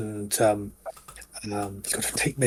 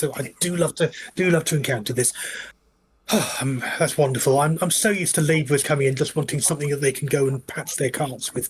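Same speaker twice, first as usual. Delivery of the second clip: goblin tailor; 3 semitones higher than usual. Acted. Tailor talking to customer.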